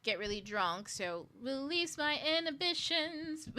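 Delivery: put-on high, loud, gleeful plan to get drunk; mock reckless drinker. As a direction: ham up a careless party voice. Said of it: "you drink a lot and you go up".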